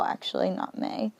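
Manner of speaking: quick whispered self-correction. Real, not acted. Teacher correcting herself under her breath, whispering. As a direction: drop to a whisper to fix the word.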